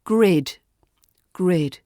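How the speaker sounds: "Grid." short and sharp; "Grid." crisp, with no vowel after the D. Shown as a demonstration. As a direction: cut "Grid." off clean, no trailing vowel. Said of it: "This is short and sharp".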